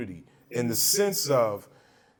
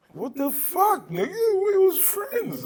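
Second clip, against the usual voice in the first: retold shock; 5 dB louder, slower than usual.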